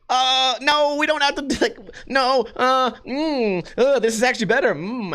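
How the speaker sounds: nervous, high, fake-pleased fluster; nervous placating. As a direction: squirm out of a fuss. Nervously placating girlfriend, pretending.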